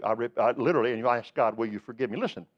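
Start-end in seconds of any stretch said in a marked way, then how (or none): 1.5-2.2 softly asking God; hushed, humble request; quiet plea. Retold or imitated.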